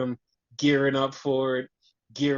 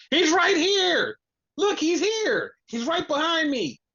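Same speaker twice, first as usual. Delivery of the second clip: mock excited yell; 13 semitones higher, 4 dB louder than usual. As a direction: yell it like a hammed-up alarm. Acting out Tony Khan announcing someone's arrival.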